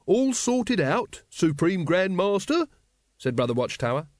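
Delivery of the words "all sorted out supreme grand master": very high, slow, obliging reply; eager deference. A narrator's reading. Brother Watchtower answers Grand Master, eagerly deferential. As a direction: report to the leader with fawning eagerness.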